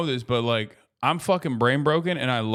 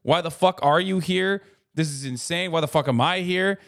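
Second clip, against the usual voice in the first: shocked fan; 3 semitones higher than usual. Retold or imitated. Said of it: "When someone just goes".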